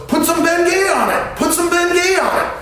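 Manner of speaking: high, loud insistent call; eager advice. Retold or imitated. Marty urging the hurt friend, loud high insistent call. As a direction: push the bad advice loudly, twice. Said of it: "Marty, goes".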